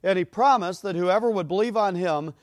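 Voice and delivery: slow and loud, building, preacher's fire; fervent preaching. Acted. Preacher proclaiming Christ to the congregation, fervent and loud. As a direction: proclaim it from the pulpit.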